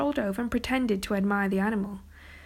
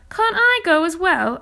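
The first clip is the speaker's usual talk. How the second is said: put-on high, loud boyish pleading; eager plea; 8 semitones higher, 7 dB louder than usual. A narrator's reading. Arthur asking his brother to take him along, eager plea. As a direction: plead eagerly, pitched right up.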